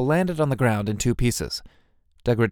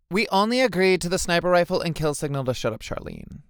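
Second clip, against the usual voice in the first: complaining; 6 semitones higher than usual. A narrator's reading. Lulu complains about Charlene.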